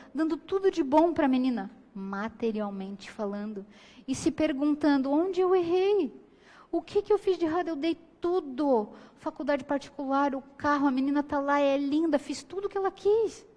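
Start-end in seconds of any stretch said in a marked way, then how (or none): 5.1-13.5 voz aguda e lenta de quem se lamenta; pai em luto. Retold or imitated. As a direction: imitando pai desesperado se perguntando. Pais em luto se perguntando. (pais enlutados perguntando onde erraram, lamento agudo)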